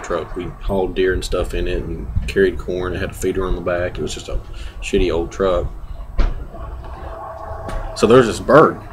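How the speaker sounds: cigar held at lips; words around cigar puffs; talking with cigar. Real, not acted. Seen 1: Holds cigar, repeatedly puts it to lips while speaking.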